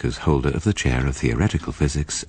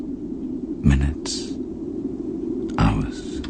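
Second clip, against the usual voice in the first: whispering; 3 semitones lower, 4 dB quieter, much slower than usual. Acted. Narrator's ominous time musing.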